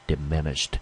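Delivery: "diminished" with the weight on its second syllable; stress on MIN. Shown as a demonstration. Teacher confirming the stress for students, diminished stressed on MIN. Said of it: "重音落在第二个音节".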